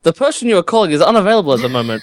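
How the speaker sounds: fast recorded operator voice; automated phone message. Acted. Answering machine message.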